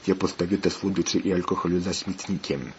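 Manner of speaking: ordinary delivery, nothing marked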